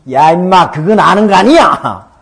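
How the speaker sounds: loud, high retold telling-off; acted scolding. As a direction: shout the kids down in mock reproach. Retells scolding the kids.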